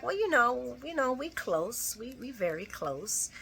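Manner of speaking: sheepish dodging mumble. Retold or imitated. Austin evasive, sheepish answer.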